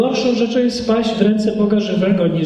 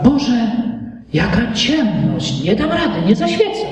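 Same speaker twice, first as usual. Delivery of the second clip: mock fearful whine. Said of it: "ta bojaźliwa żarówka".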